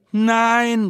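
high, loud protesting cry; shouted no. Acted. Community shouting back at the city, a sharp loud protest. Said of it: "rufen wir".

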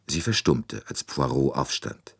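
ordinary delivery

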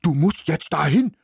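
dog urging the mouse on; barking dog. A narrator's reading. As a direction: bark the order at him. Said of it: "bellte er".

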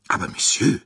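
protesting. A narrator's reading. Company director objects to the colonel's insult, protesting. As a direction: cut in with a protest. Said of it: "rief Monsieur Bouc protestierend".

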